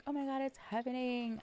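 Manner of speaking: mock excitement.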